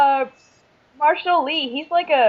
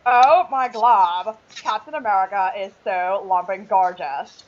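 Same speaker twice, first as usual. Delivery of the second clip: Lumpy Space Princess voice; 3 semitones lower than usual. Pretend. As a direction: ham up a spoiled cartoon princess. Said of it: "can you do your lumpy space princess voice?".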